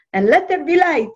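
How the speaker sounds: high, loud imitation Yiddish accent; hammed-up Yiddish-accented aunt, proclaiming; Aunt Celia. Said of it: "Yiddish accent".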